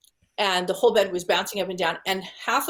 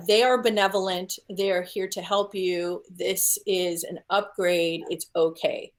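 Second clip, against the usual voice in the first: lightly imitated flat, calm reassurance; mild mock monotone, unhurried. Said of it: "in this very monotone, calm voice".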